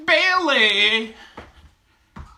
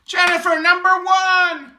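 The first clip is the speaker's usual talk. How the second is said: hype shout; 9 semitones higher than usual. Real, not acted. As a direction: shout her out like a champion. Hyping up a viewer.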